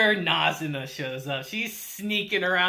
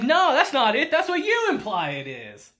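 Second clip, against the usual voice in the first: sharp raised protest, then settling; a retold half-shout of denial; insistent denial; 5 semitones higher, 5 dB louder than usual. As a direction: push back hard on no. Ko denies it to his girlfriend.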